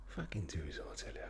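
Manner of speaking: lightly menacing Cockney; mock-tough Cockney order; Jason Statham. Cockney tough demanding obedience, mock threat. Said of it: "like proper Cockney".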